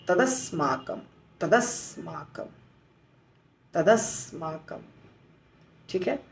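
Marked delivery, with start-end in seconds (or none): 0.1-4.8 तदस्माकम repeated slowly, as one word; slow repetition. Shown as a demonstration. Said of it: "दूसरा जो मुश्किल है". (तदस्माकम धीरे-धीरे दोहराएँ)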